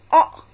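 "o," said loud, short o as in octopus; teacher models short o; short o sound. Shown as a demonstration. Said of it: "O is pronounced as o".

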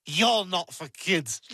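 slow, tipsy retort; mock tipsy comeback; acted drunk. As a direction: draw it out like a drunk. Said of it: "Stewie, you're drunk".

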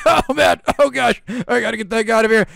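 loud, high flustered cry; panicked. Acted. Boy fleeing the principal in a panic. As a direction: scramble to escape.

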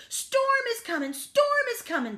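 high, loud duck alarm; quacking duck. A narrator's reading. Duck warning the cows of the storm, quacking. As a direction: raise the alarm as an excited duck. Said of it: "Duck quacked".

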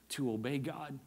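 hushed repeat of to obey God; quiet emphasis. Real, not acted. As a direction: let it drop low and quiet. Repeated phrase, now quieter.

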